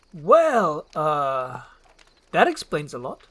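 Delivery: a lightly voiced ogre, caught off guard; awkward Shrek. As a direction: fumble for words.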